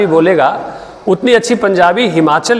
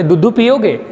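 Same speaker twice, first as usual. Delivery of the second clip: put-on baby talk. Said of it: "बोलते".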